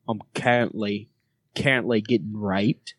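Australian vowels, searching; Australian accent. Shown as a demonstration. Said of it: "We'll do it in Australian".

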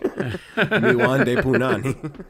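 put-on slow, laughing Jamaican accent line. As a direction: drawl it like a Steven Seagal Jamaican accent. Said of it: "in an accent".

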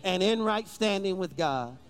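led prayer. Shown as a demonstration. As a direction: pause so they can repeat. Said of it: "repeat this prayer after me".

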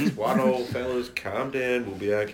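calming voice. Retold or imitated. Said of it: "You actually were the calming voice".

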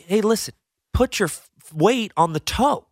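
lightly voiced instructor; ski teacher. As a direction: quote the teacher coaching a beginner. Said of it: "the teacher, he tells you".

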